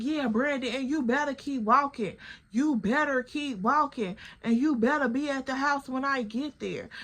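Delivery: imitating a girlfriend ordering her man home; threatening. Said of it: "She like".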